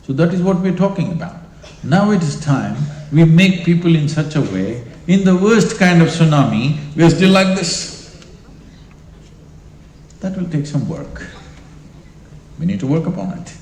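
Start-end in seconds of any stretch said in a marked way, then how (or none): 1.8-8.2 building emphatic call. Real, not acted. Rousing the audience.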